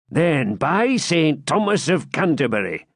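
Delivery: stagey fake archaic declaiming. A narrator's reading. Gurth swears.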